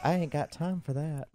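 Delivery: sass. Acted. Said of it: "look at that little sass".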